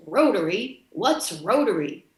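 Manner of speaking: lightly mocking cheerfulness; hint of sarcasm; mock cheery. Customs officer sarcastically asking about Rotary, mock cheery. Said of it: "And all cheery".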